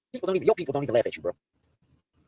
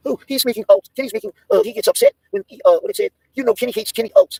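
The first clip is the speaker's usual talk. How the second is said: excited; 10 semitones higher, 4 dB louder than usual. Real, not acted. Excited rant about Kenny.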